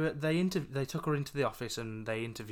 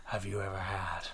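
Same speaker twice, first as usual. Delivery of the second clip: spooky voice; 4 semitones lower than usual. Retold or imitated. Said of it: "spooky voice".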